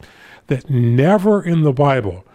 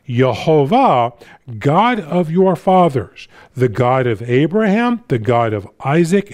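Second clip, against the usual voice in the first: slow, measured Bible reading; solemn public reading with spaced phrases; scripture reading; slower than usual. Acted. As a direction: read each title out deliberately. Reads scripture aloud to congregation.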